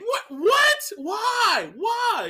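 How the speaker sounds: exasperated, high-pitched shouted questions; yelling at a video. Retold or imitated. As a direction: yell in baffled disbelief, pitch leaping up. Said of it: "yelling at the video".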